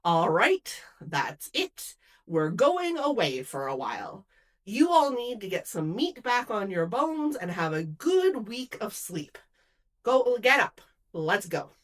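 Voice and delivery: firm, mildly commanding leader; with authority. Acted. Jesus to his worn-out disciples, with authority. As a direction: take charge and move everyone along. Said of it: "he said with authority".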